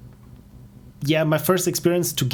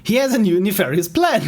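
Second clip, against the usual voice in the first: lightly put-on villain voice, higher pitched; higher, punched-up villain line before cracking up; Dilly; 5 semitones higher, 4 dB louder than usual. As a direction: play the supervillain, pitched up. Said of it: "This is my voice for Dilly".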